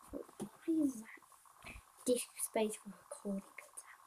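hushed, voiceless aside to oneself; whispering. Real, not acted. Player puzzling over disk space while recording, whispering. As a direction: drop to a real whisper. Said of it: "I don't know why I'm whispering".

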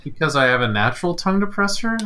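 quick, laughing question. Real, not acted. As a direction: rush it out while laughing. Laughs at own joke.

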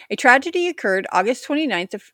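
breezy, offhand read; nonchalant. Real, not acted. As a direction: rattle it off casually. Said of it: "I sound so blasé about".

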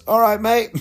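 high, loud, breezy hello; a tow driver greeting the stranded magician cheerfully; cheery greeting. Retold or imitated. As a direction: sing it out like a jolly tow-truck driver. Truck driver greeting at night.

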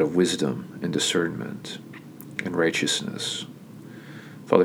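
prayer. Real, not acted. Pastor closes his message praying for the church, prayerful. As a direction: pray it sincerely, gently winding down.

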